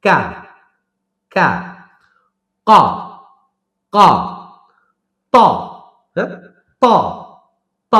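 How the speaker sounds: কা and ত held and released sharply; pulsed hard letters. Shown as a demonstration. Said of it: "pulse করে". (পালস করে শক্ত উচ্চারণ)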